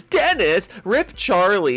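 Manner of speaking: sudden high squeak on Dennis; squeaky name call. Real, not acted. Reading names, he squeaks one out.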